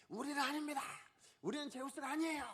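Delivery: high-pitched frantic cry of denial; acted shouting. Preacher as apostles refusing worship as Zeus, crying out high. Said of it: "막 이러면서 소리를 질렀다라는 거예요".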